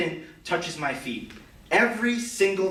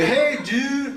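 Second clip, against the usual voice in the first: higher, laughing surfer-dude greeting; cool lifeguard voice; 8 semitones higher than usual. Shown as a demonstration. Showing how he plays the lifeguard, breezy laughing greeting. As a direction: play it cool like a lifeguard should. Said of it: "so I gotta, like, play it".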